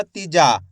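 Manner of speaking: तीजा with the long aa of जा stretched; तीजा, leaning on a long जा; drawn-out vowel. Shown as a demonstration. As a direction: lengthen the जा in तीजा. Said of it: "जा का उच्चारण खींच को रहा".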